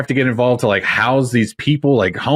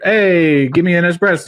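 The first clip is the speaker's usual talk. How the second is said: mock Italian; 4 semitones higher than usual. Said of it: "Italians are just like".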